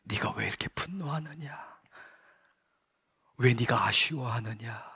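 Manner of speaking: voice of God. Retold or imitated. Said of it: "주님이 제 마음에 말씀하셨습니다".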